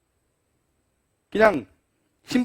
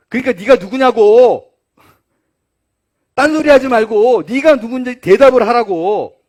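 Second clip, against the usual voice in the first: louder, exasperated interrogation; irritated demand; 4 semitones higher, 8 dB louder than usual. Acted. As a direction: press him hard, fed up with dodging. Angry Jews press John again. (짜증 섞인 큰 소리의 추궁)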